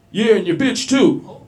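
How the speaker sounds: loud, high, slow shout; drawn-out road-rage shout; yelled insult. Retold or imitated. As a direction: yell it across at the next car. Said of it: "he yells out".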